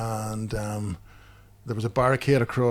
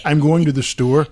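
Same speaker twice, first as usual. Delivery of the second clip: mock American accent; 4 dB louder than usual. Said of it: "she's speaking like them".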